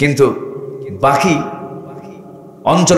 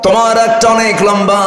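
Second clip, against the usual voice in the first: Satan's whispered lullaby; 9 semitones higher than usual. Retold or imitated. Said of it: "এমন করে ওয়াজ করে".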